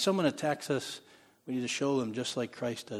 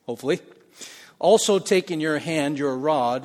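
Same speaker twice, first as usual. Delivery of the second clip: louder, measured Bible reading; scripture reading; 4 dB louder than usual. Acted. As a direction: read the verses out with weight.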